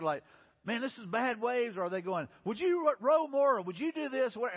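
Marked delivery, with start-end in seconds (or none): 0.6-1.8 high, slow complaint over the waves; acted hollering. Fishermen freaking out in a storm, acted hollering. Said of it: "they're hollering at each other". 2.5-4.3 high, loud, panicky nagging; acted hollering. Disciples getting on each other in rough waves, panicked hollering. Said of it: "they're hollering at each other".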